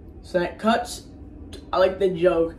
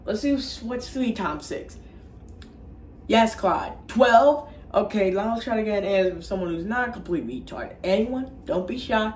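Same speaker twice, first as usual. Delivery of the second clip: higher, prodding teacher voice; Mister Garrison; 3 semitones higher than usual. Retold or imitated. Teacher asks the class for answers, put-on schoolteacher voice. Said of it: "So Mister Garrison comes in".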